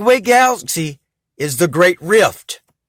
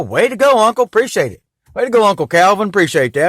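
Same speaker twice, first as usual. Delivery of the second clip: mock congratulations, a bit louder; sarcastic praise; 4 semitones higher, 4 dB louder than usual. Real, not acted. Sarcastically thanking Uncle Calvin for being sworn to kill. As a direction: toast him with dry sarcasm.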